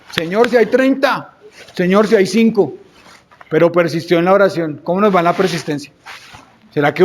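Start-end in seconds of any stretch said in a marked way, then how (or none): 0.1-2.8 higher-pitched, insistent plea to God; persistent pleading. Acted. Abraham bargains with God for Sodoma y Gomorra, persistent pleading. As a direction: press the plea upward, drawing it out. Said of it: "Y después luchó".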